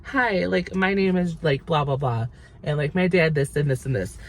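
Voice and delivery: a hint of a bubbly TikTok intro; mock TikTok girl. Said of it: "that TikTok where".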